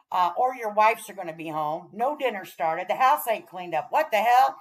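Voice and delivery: playful hammed-up scold; mock scolding. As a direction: boss the ladies back to chores. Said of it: "mock-scolding viewers back to housework".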